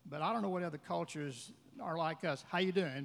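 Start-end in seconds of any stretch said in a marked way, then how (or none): 2.5-3.0 quick, tossed-off hello; empty casual greeting. Shown as a demonstration. Showing how Americans greet in passing, casual and empty. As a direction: greet in passing without meaning it. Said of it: "But it means nothing".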